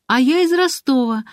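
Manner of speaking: a cook delighted to meet a fellow southerner; joyful exclamation. A narrator's reading. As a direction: blurt it out happily. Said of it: "обрадовалась Марина".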